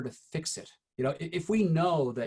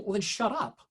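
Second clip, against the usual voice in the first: exasperated friends; 7 semitones higher than usual. Retold or imitated. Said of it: "they get to a point of saying".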